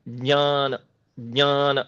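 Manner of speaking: ज्ञान said as "ञान"; ज्ञान with a nasal ny sound; pure pronunciation. Shown as a demonstration. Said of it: "वो पढ़ना बहुत कठिन है". (शुद्ध "ज्ञान", नासिक्य ञ के साथ)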